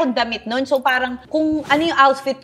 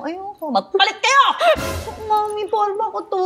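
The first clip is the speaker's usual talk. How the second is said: much higher, bratty protest; high whining no; whiny refusal; 11 semitones higher than usual. Retold or imitated. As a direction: refuse like a spoiled girl protecting her outfit. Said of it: "Sabi ng Mami".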